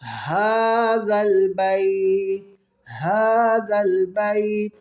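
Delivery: هَذَا with the ha from deep in the throat, slowly; حلق سے ہا. Shown as a demonstration. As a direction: breathe the ha of هَذَا from the lowest throat. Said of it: "وہاں سے یہ ہا ادا ہوگا".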